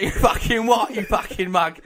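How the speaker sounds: mock-aggressive Cockney comeback; comic Cockney geezer; Cockney accent. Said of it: "You, you've gone Cockney".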